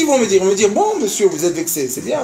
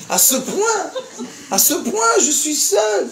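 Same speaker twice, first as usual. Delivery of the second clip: laughing; 9 semitones higher, slower than usual. Real, not acted. Laughing at his own tears.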